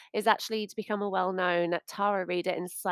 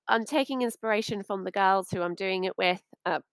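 hiccuping mid-sentence; with hiccups. Real, not acted. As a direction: talk through the hiccups. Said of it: "excuse me, I've got hiccups".

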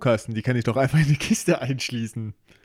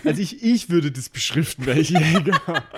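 laughing; 3 semitones higher than usual. Real, not acted. Jokes about labelling cursed boxes.

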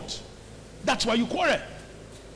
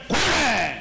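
higher, punched-out single word; mock command; 4 semitones higher, 3 dB louder than usual. Preacher parodying a misread verse, mock command. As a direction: throw it out as a mock order.

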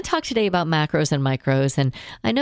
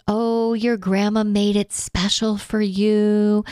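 coaxing relative; 5 semitones higher, slower than usual. Retold or imitated. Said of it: "There's pressure that comes along".

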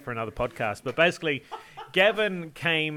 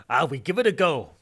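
louder, pitched-up mock Russian accent; 2 semitones higher, 6 dB louder than usual. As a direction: imitate a classic Russian accent. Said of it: "that classic Russian accent".

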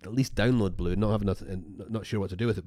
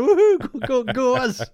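high, loud whoop of celebration; replaying her own loud cheer; retold cheering; 13 semitones higher, 9 dB louder than usual. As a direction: cheer it out like your team just won.

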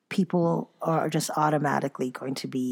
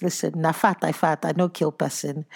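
Nigerian Pidgin. Retold or imitated. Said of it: "She says ... Nigerian slang".

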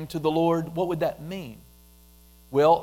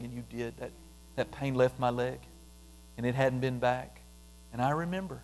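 heartfelt testimony prayer; 4 semitones lower, 4 dB quieter than usual. Shown as a demonstration. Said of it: "when I start getting specific".

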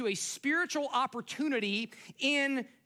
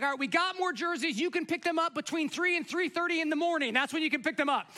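mock cheery email voice; 5 semitones higher than usual. League email voiced mockingly.

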